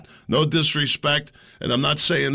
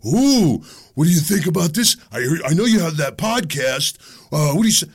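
nosy fan. Retold or imitated. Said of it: "everybody wants to know".

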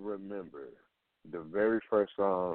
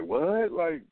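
high, louder surprised question; mock disbelief; 8 semitones higher, 4 dB louder, much slower than usual. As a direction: act stunned in disbelief. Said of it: "And people like".

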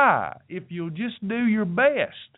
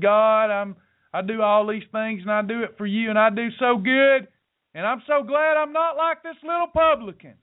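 self-righteous Pharisee; 2 semitones higher than usual. Acted. Pharisee praying beside a publican, smugly self-righteous. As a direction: boast to God, nose in the air, pitch rising. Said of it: "with his little nose up in the air".

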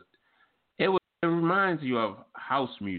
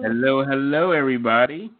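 excited greeting; 3 semitones higher, 9 dB louder than usual. Real, not acted. Host opening the show.

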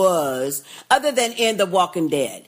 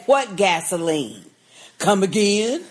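mock stiff line; 3 semitones lower than usual. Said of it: "he would have at least said".

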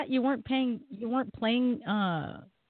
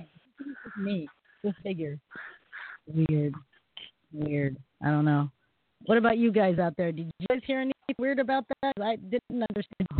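underwater. Real, not acted. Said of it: "now you sound like you're underwater".

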